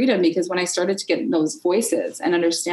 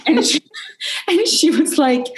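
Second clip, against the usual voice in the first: laughing; 11 semitones higher than usual. Real, not acted. Telling the host about her shadow voice, laughing through the words. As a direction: burst into laughter mid-sentence. Laughs while starting a story.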